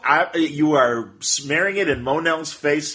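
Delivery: teasing indignation; mild mock-offended rant; mock outrage. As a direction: play at being a scandalized fan. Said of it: "I'm teasing".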